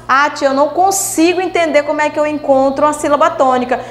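quick, lightly voiced student complaint; a hint of a pleading pupil; puzzled pupil. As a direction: rattle it off like a stuck pupil. Teacher voices a confused pupil.

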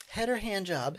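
lightly voiced sweet stewardess; mock stewardess. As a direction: ask it like a chirpy flight attendant. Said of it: "the stewardess is coming down like".

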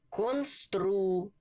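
drawn-out "констру" as kon-stru; syllable by syllable. Shown as a demonstration. Teacher joining syllables for learners, sounded out carefully. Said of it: "як ми читали по складах".

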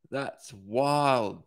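amused laugh through the words. A narrator's reading. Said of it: "she laughs".

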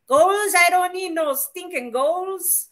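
slow, gruff bandit quote; gruff movie bandit. Retold or imitated. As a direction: drawl it like the film bandit. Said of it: "the line of dialogue from the nineteen forty-eight film".

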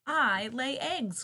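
high, loud, slow clucking; clucking hen. Acted. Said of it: "clucked the hen".

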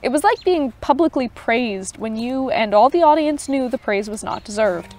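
even storytelling read; story narration. A narrator's reading. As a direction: read the tale aloud for listeners. Reads Tolkien story aloud.

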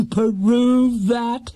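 high, amused repeat; laughing high. Acted. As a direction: chuckle it out in a high voice. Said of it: "laughing at his own joke in a rather high voice".

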